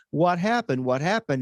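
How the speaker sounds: bewildered. Retold or imitated. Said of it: "he goes".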